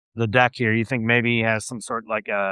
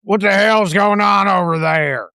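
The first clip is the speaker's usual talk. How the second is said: a higher, louder, slow call from the deck above; gruff sailor calling out; 8 semitones higher, 5 dB louder than usual. Acted. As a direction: yell down to the boat below, puzzled. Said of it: "You'll hear another voice you haven't heard yet".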